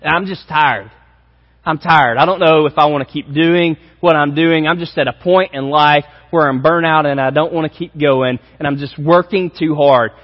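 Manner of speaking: weary churchgoer. Retold or imitated. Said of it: "you would say".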